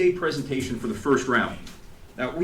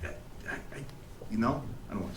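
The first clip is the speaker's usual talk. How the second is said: retold bawling; 2 semitones lower, 11 dB quieter, faster than usual. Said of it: "And I just started bawling".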